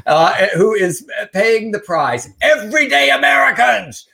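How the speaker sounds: hammed-up political outrage shout; mock outrage. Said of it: "I can't even read this with a straight face".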